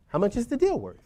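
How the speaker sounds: polite, friendly tone for a client; nicely. Shown as a demonstration. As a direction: ask it kindly, with no pressure. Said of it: "Nicely, right?".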